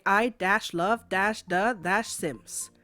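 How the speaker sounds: slow, deliberate spelling out; lightly mocking each dash; reciting the product key. Telling viewers the free Sims code, slow mock recital.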